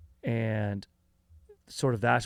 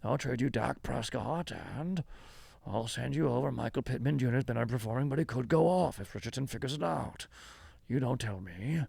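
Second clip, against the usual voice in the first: hammed-up dealmaker voice; 3 semitones higher than usual. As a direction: lean in like a shady oilman closing a deal. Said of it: "I would always talk like this".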